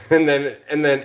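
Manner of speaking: laughing at his silly sign-off. Real, not acted. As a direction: burst of real laughter, loud.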